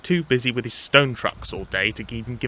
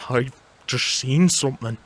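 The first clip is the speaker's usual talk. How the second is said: mildly frightened, trembling report; shaky voice; 2 semitones higher than usual. Acted. Toby setting up the prank, shaky voice. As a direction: quaver a little, pretending to be scared. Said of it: "said Toby in a shaky voice".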